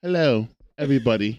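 lightly voiced virtual assistant; low, measured device announcement; Lana. Telling friends how the show's device talks, low mock-assistant voice. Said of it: "Lana will be like".

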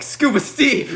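high-pitched alarmed call; mock panicked plea. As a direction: call after him in retold disbelief. Acted panicked plea to leader.

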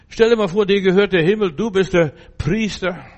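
loud, high rousing exclamation; preaching shout. Real, not acted. Preacher shouting to his congregation about heaven, rousing. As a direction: lift the whole room with it.

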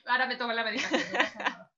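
joking line said through laughter; laughing. Pretend. Guest jokes she will take her medication, laughing.

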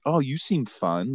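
a hint of an imitated woman; French girl quoted. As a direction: lightly voice her interest, drawn out. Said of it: "and she's like".

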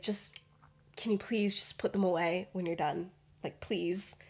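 soft, whispered please. Retold or imitated. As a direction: keep it secret, barely a whisper. Hushed late-night common room plea.

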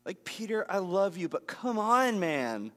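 affectionate frustration at Peter; Jesus sighing at Peter, exasperated. Retold or imitated.

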